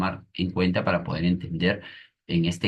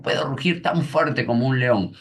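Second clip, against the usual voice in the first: niño que ruge; 5 semitones higher than usual. Retold or imitated.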